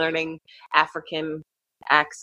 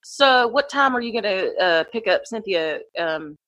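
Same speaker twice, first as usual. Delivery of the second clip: put-on chatty Southern accent with lilting pitch; Georgia Southern accent; 4 semitones higher than usual. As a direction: put on a casual Georgia twang. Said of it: "my daughter's dad is from Georgia".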